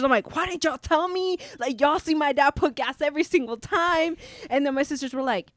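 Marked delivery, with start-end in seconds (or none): 0.3-4.2 high-pitched indignant complaint; mad, retold. Driver complaining to her sisters in the car, mock mad. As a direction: reenact scolding them, voice pitched up. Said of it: "I'm mad at my sisters".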